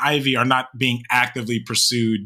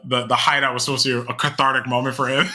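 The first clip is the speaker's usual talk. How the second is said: laughing through the words; cracking up while talking; faster than usual. Real, not acted. Breaks into laughter mid-sentence.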